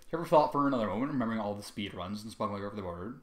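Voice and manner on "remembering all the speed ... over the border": plain reading voice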